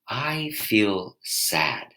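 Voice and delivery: "I feel sad", stretched and simple; slow, honest naming of sadness; slow, plain statement. Shown as a demonstration. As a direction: say it very slowly, no apology. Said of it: "Just try that on without the explanation".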